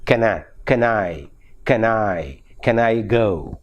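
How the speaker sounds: "can" reduced to "kən", linked into "I"; low-pitched drill of weak "can"; weak form. Shown as a demonstration. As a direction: run "can I" together as "kə-NAI". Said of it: "Actually, the pronunciation is".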